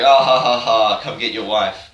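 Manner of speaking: loud hammed-up villain cackle into the taunt; mock villain laugh. Kidnapper taunting Leon about his wife, loud mock cackle. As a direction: cackle like a cartoon baddie, then taunt. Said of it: "He's like".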